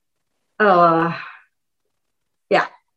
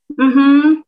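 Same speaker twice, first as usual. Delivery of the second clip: encouraging listener; 7 semitones higher, 5 dB louder than usual. Retold or imitated. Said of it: "the other person is gonna go".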